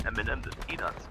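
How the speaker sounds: talking through a mouthful; words round a bite of food; mouth full. Real, not acted. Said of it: "that tasted like".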